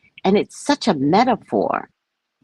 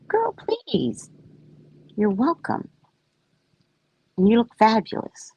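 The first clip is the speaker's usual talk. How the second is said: put-on much higher, playful Girl please; sassy high mock voice; 5 semitones higher, 4 dB quieter than usual. To a friend, high sassy reassurance. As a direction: camp it up sweetly, pitched high. Voicing herself praising a friend.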